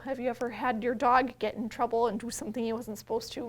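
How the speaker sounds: ordinary talk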